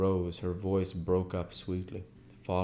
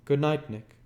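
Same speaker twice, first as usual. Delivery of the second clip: higher, louder Daisy farewell; Daisy calling good night, raised; Daisy's goodbye; 8 semitones higher, 8 dB louder than usual. A narrator's reading. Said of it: "said Daisy".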